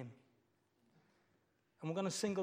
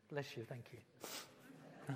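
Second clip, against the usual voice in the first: laughing thanks; 3 semitones lower, 9 dB quieter, much slower than usual. Real, not acted.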